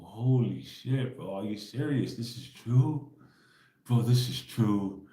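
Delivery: drawn-out, stunned disbelief; slow amazed realization. Retold or imitated. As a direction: let it sink in slowly, astonished. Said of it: "I gotta go".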